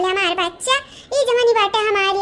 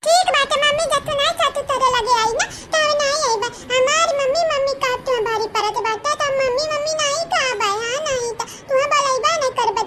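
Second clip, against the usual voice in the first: put-on higher pitched sulking child voice; sulky child; 4 semitones higher than usual. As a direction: pout it out like a hurt kid.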